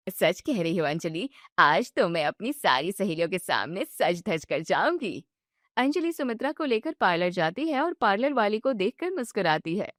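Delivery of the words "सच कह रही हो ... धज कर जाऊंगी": put-on lower, delighted older woman; excited about the party; pleased mother-in-law. Mother-in-law voiced in story.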